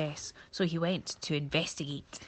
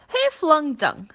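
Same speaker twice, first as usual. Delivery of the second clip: much higher, much louder, slow accusing yell; 10 semitones higher, 10 dB louder, slower than usual. Acted. Monkey yells at the vultures, a high slow accusing yell. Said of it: "Furley yelled accusingly".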